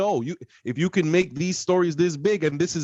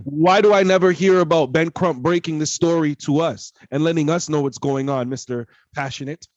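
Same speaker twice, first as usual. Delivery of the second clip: angry; 5 dB louder than usual. Real, not acted. Heated rant about Ben Crump.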